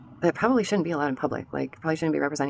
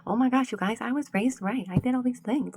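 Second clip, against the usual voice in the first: higher, prissy mock of a smug parent; mocking people who say they were raised right, higher; 8 semitones higher than usual. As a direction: put on a self-satisfied voice. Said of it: "Y'all think that, like".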